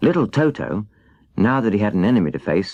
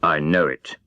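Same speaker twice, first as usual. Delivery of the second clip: lower, sheepish lion owning up; ashamed; 4 semitones lower than usual. Acted. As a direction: hang your head as you admit it. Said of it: "hanging his head in shame".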